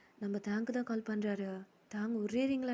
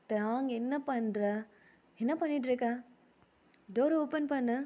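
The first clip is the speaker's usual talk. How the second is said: raised voice through a closed door; acted motherly summons, louder; mother calling; 2 semitones higher, 4 dB louder than usual. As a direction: call out insistently to a child.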